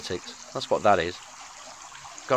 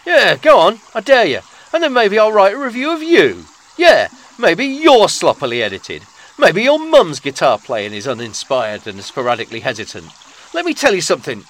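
loud, heated tirade, louder and higher; mock angry rant; 4 semitones higher, 8 dB louder than usual. Host daring listeners to review him, loud mock-angry rant. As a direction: round on the critics, spitting indignation.

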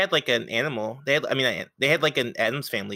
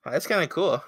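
whispering; 5 semitones higher than usual. Real, not acted. Sudden whisper reaction.

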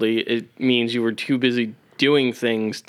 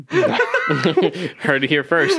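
laughing; 4 semitones higher, much slower than usual. Real, not acted.

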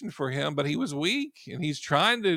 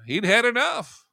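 higher, louder declaration; emphatic; 7 semitones higher, 5 dB louder than usual. Real, not acted. Preacher lifting the congregation, emphatic. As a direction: drive the point home.

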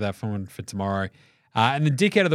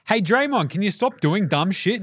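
higher-pitched mock telling-off; imitated scolding, pitched up; exasperated commissioner; 7 semitones higher than usual. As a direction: play an official pleading with a troublemaker. Acts out commissioner scolding Draymond.

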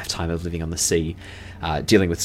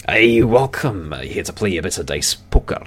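welcoming dwarf; 3 dB louder than usual. Acted.

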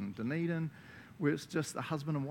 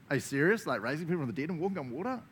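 fast, louder disbelieving question; incredulous; 3 semitones higher, 3 dB louder, faster than usual. Acted. Preacher reacting to doing the same works as Jesus, incredulous. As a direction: rattle it off in mock disbelief.

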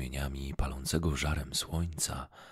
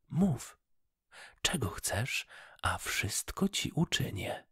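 cheerful fish voice; 8 semitones higher than usual. Acted. Freed goldfish thanks the kind fisherman, high and merry. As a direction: thank him gladly in a tiny voice. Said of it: "zawołała wesoło".

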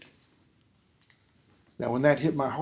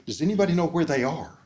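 offhand rhetorical ask; 5 semitones higher, 4 dB louder than usual. Shown as a demonstration. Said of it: "It's not like".

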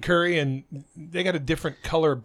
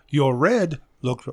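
mock Thai accent; slower than usual. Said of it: "my horrible Asian slang is just so far off".

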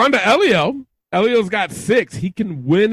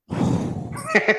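mock sigh; 9 semitones higher, 6 dB quieter than usual. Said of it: "He goes".

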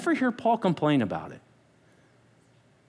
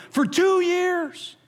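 slow emphasis; 10 semitones higher, much slower than usual. Real, not acted. Dramatic slow reveal.

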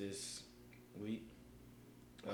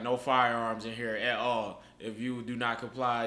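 mock official sign; 4 dB louder, slower than usual. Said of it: "it was like".

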